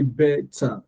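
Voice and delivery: "better" split evenly into BE-TA; two separate syllables. Shown as a demonstration. Teacher counting syllables for learners, "better" split as be-ta. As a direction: give "better" two full, distinct beats. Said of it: "two syllables".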